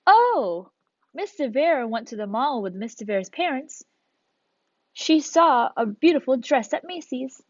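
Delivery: mock example of talking about oneself by name; third-person self-talk. Teacher showing students how nobody talks, lightly mock-acted third-person chat. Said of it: "I'm not gonna say".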